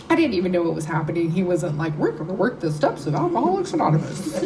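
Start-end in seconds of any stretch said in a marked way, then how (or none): 2.0-4.4 high, swooping mock announcement; hammed-up singsong proclamation; mock sales pitch. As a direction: playfully parody an over-keen recruiter. Mock pitch of what he didn't say.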